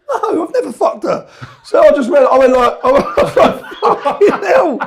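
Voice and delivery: cracking up while quoting; laughing. Real, not acted.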